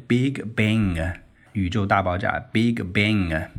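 slow Bang with an English ang ending. Shown as a demonstration. Teacher demonstrates the English ang in Big Bang, slow. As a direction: draw out Big Bang slowly, English style. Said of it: "英语里面的A N G是这样读的".

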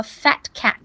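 "fat cat" with the t of fat held silent; dropped final t. Shown as a demonstration. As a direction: run "fat" into "cat" without releasing its t. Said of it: "fat的t就不读". (示范 fat cat，fat 的 t 不读出来)

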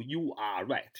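"You are right" in separate words, ARE given its full vowel; "You are right" read word by word without linking; unlinked YOU ARE. Shown as a demonstration. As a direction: keep "You" and "are" apart. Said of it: "没那么读的".

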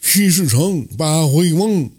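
slow, stubborn simpleton cursing; muttered curse. A narrator's reading. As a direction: mumble a grudge like a simple fool. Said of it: "喃喃地骂道".

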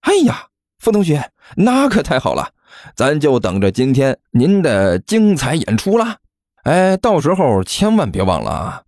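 gloating 甘球. Acted. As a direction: tease the loser with fake politeness. (幸灾乐祸地调侃)

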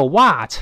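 overdone wide-open "what"; exaggerated American vowel in "what". Shown as a demonstration. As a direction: stretch "what" too wide, as a caricature. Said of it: "但也不要夸张的what".

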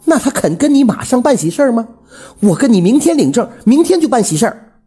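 high-pitched, frantic outburst; exasperated. A narrator's reading. Widow outbidding her rival for marriage, exasperated. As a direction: raise the stakes in desperate frustration. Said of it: "虎子妈有些气急败坏了".

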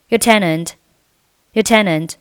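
"your" reduced to a short, weak "yer" before tenant; weak form of your. Shown as a demonstration. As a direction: say "your tenant" with a light, unstressed "your". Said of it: "我们进行一个弱读".

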